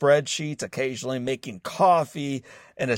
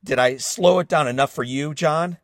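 sarcastic; 2 semitones higher, 4 dB louder than usual. Retold or imitated. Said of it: "replied sarcastically".

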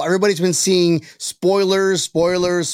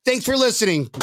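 mock sign-off; 4 semitones higher than usual. Mock sign-off after joke.

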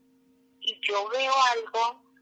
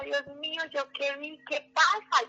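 panicked cry; 5 semitones higher than usual. Retold or imitated. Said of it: "yo empecé a gritar".

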